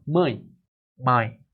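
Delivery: "Mãe" said with the nose pinched, the hum stuck; "Mãe" spoken with a blocked nose; nose held shut. Shown as a demonstration. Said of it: "Agora fala".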